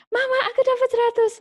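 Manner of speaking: put-on high, fast child voice bursting with news; excited child. Child telling mother about a perfect score, high and fast. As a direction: chirp it out like a proud little kid.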